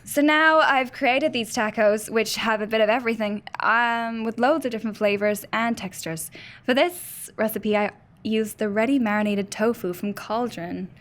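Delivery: reading a recipe in a put-on Irish accent; Irish lilt, reading aloud. Shown as a demonstration. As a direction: attempt a Cork accent. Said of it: "your Irish accent".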